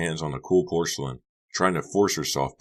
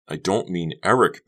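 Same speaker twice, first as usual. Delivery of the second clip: cried; 3 semitones higher, 5 dB louder than usual. Acted. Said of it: "Becca cried".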